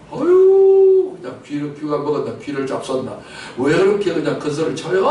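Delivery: mock exasperation. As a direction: act out a mildly irritated bystander. Acted complaint about loud preaching.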